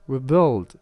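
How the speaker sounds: "rebuild" with BUILD punched loud; short "re", then hit "build" hard in "rebuild"; stress on the stem. Shown as a demonstration. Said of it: "the stress is kept on the original word".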